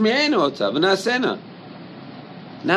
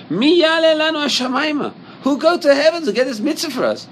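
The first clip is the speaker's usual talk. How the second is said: a hint of a whining excuse-maker, higher and louder; mock whiner; 11 semitones higher, 5 dB louder than usual. Teacher mimics a student's excuse, lightly whining. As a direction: play the lazy student making excuses.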